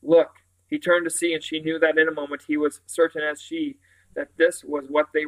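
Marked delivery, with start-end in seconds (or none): 0.0-0.4 husky. Acted. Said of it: "She said to Simon huskily".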